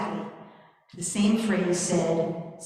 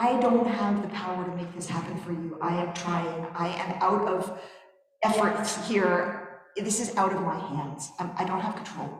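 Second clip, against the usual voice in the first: defeated. Acted. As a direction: say it drained, out of steam. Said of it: "his response is".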